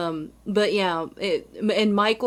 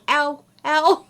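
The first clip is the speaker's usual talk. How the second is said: cousin's pained ow; 7 semitones higher, 5 dB louder than usual. Retold or imitated. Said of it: "she was like".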